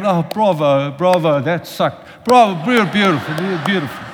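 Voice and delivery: hammed-up gushing bravo, breaking into a laugh; fake-polite applause, overdone; mock American praise. Imitating American listeners after a bad sermon, gushing. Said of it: "like here in America".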